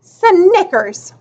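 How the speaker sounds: high "Snickers" with a falling end; said loud. A narrator's reading. Girl mocking the new name "Snickers", said loud. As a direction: announce "Snickers" with a drawn-out first sound. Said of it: "she said it loud".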